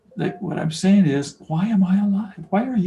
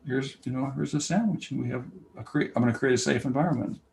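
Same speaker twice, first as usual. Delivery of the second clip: gentle apology. Retold or imitated. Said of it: "take him and say".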